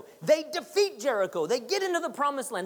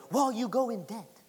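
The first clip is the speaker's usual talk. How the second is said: mock disclaimer. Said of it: "They should have a disclaimer".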